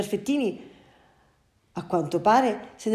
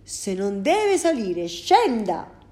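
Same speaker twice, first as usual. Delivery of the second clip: annoyed driver; 2 semitones higher, 6 dB louder, slower than usual. Acted. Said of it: "Il conducente era tutto arrabbiato".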